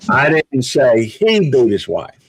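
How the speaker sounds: he stressed, someone else did; he singled out. Shown as a demonstration. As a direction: point at the word he. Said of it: "I'm gonna say it several different ways".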